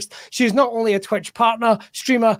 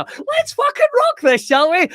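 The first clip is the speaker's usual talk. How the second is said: excited. Real, not acted. Host hyping up the show.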